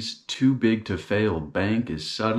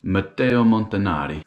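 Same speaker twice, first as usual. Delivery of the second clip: Italian accent; 2 semitones higher, 3 dB louder than usual. Shown as a demonstration. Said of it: "I like to do an Italian accent when I say Italian words".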